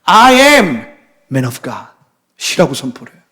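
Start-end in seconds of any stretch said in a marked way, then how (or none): 0.0-1.9 bold declaration. Retold or imitated. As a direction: proclaim it boldly, dropping off at the end. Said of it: "겉으로는 완전 담대하게".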